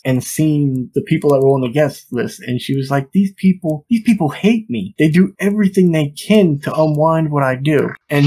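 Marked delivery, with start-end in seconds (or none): 3.1-7.9 higher-pitched mock indignation, not shouted; mild retold anger. Retelling a wife angry at the guest list, mildly indignant. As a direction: lightly act out an aggrieved complaint. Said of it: "where she had gotten angry".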